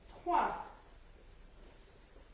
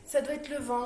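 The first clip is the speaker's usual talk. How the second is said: repeating it louder over the wind; raised voice, explaining the noise; shouting over wind; 5 dB louder than usual. Real, not acted. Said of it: "oui, c'est la tempête".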